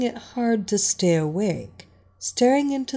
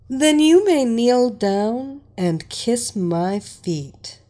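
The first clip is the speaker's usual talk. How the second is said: slow, louder imperious order; commanding; 3 semitones higher, 5 dB louder, slower than usual. Acted. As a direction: command your slave, savouring it. Mistress commanding her slave.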